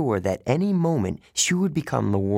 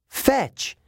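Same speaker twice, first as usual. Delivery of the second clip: command shout; 14 semitones higher than usual. Acted. Throws stick shouting to dog.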